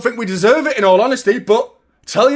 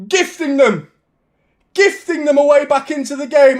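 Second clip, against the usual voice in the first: dismayed outrage. Real, not acted. Fan watching his keeper gift a goal, outraged. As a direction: groan it out at the keeper.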